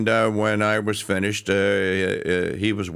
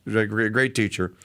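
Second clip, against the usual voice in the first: normal talking voice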